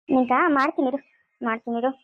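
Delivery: low, fading menacing voice; ghostly threat. Acted. Possessed girl threatening the father, low spirit voice.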